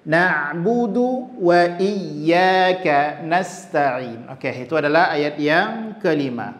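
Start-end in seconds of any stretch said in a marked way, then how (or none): 0.0-4.3 slow recitation with drawn-out vowels; tilawah. Shown as a demonstration. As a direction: recite slowly and evenly. Demonstrates Quran recitation. (bacaan Al-Quran pelan)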